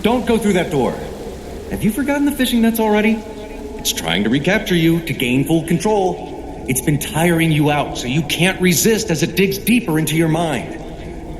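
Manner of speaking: high, urgent plea; urgent warning. Real, not acted. Wizard warning the student off the door, urgent and high. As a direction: stop them before they open it.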